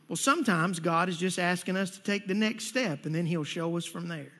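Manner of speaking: mildly calm retold advice; understated, wise reassurance. Older gentleman advising a praying man at church, calm and wise. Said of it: "very calmly and very wisely said to me".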